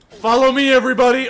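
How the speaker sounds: high, loud rallying call to troops; Aragorn rallying. Pretend. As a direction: lead the charge like a king. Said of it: "I'm Aragorn".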